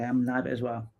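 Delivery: ordinary delivery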